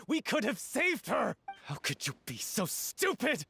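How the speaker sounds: furious at the betrayal, pitch pushed up; angry accusation. Acted. Grieving lover accusing the troupe member who hid the danger, angry. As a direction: hurl the blame at him. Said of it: "You've screamed and shouted at each other".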